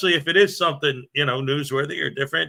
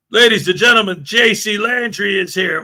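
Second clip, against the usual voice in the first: loud, higher ringside announcement of the name; announcer shout; 4 semitones higher, 4 dB louder than usual. Pretend. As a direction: call it out to the whole arena. Shouted welcome of a viewer.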